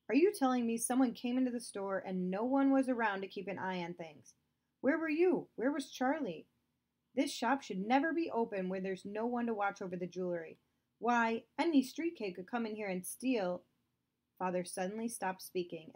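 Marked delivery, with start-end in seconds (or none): 0.1-4.3 louder, scolding stern father; angry father. Acted. 4.8-5.5 higher, louder sharp demand; angry demand. Acted. Father demands angrily. 5.5-13.6 louder, scolding stern father; angry father. Acted.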